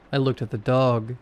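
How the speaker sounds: ordinary delivery, nothing marked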